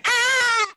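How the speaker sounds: imitated high-pitched movie scream; long squealed "aah", far above the normal voice; Chris Tucker. Co-host re-enacting the plane scene scream, high squeal. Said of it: "when he starts screaming, he said".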